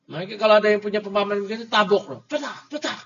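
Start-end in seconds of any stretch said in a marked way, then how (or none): 2.2-3.0 high, quick mock slap noises; imitated slaps. Teacher acting out a slapping, high imitated smacks.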